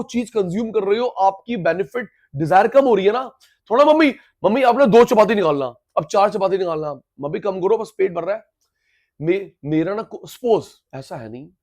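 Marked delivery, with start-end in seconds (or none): 3.8-8.4 put-on child calling mum. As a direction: call mum eagerly, then wind down as you fill up. Child tells mum he is full.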